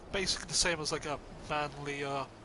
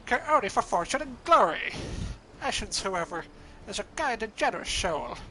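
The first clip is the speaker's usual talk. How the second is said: loud, raised heroic proclamation; booming hero voice; 4 semitones higher, 4 dB louder than usual. Acted. Another NPC voice.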